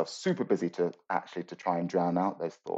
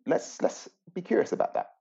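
gentle teacher guiding. Shown as a demonstration. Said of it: "something I might tell students to do is go".

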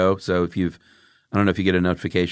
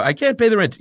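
pleading damsel; 14 semitones higher, 4 dB louder than usual. Acted. Damsel reply in melodrama.

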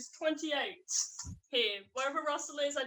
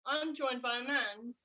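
robot voice. Pretend. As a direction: speak like a machine, each word level. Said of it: "talking like a robot".

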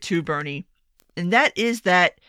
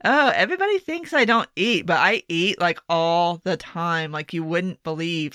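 put-on skinny girl bragging; 2 semitones lower than usual. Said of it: "that's some skinny girl bragging shit".

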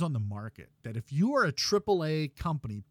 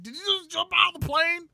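high-pitched imitation of a Rhode Island accent; freaking out in a bad Rhode Island accent; mock Rhode Island accent; 14 semitones higher, 5 dB louder than usual. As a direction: friend panicking after a plane jump, bad Rhode Island accent. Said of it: "he does it with that Rhode Island accent".

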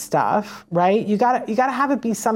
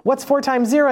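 upbeat teacher prompt; 5 semitones higher than usual. Shown as a demonstration. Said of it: "give them an easy one".

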